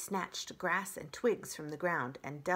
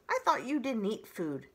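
higher, louder fox voice; sulky fox; 4 semitones higher, 5 dB louder than usual. Acted. Fox grumbling at the robot. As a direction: complain like a thwarted fox.

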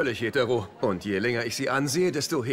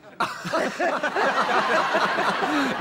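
burst of laughter; 13 semitones higher than usual. Acted.

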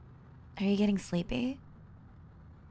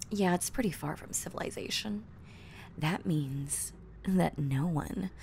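whispering. Acted. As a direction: breathe it in a whisper. Teasing creepy whisper.

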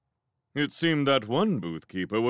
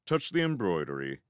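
ordinary delivery, nothing marked

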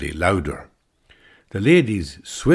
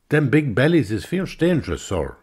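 joking; 7 semitones higher, 3 dB louder than usual. Retold or imitated. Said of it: "I says, joking".

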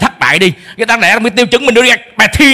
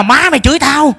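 deaf father accusing; 6 semitones higher than usual. Retold or imitated. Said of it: "Ông nhìn má tôi lép nhét".

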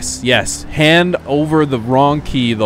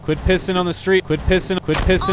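yelling; 6 semitones higher than usual. Acted. Shouting at man pissing.

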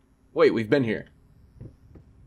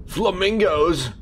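mock excited; 9 semitones higher, 6 dB louder, slower than usual. Real, not acted.

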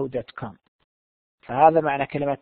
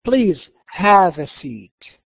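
very slow, spaced-out words; careful model reading; 3 dB louder, much slower than usual. Shown as a demonstration. Manager offers the visitor a seat, slow careful model reading. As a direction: offer it slowly, word by word. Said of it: "listen carefully and see how words are pronounced".

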